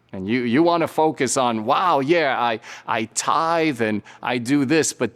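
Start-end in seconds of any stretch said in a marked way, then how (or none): 1.6-4.9 smug self-praise. Retold or imitated. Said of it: "like the Pharisee".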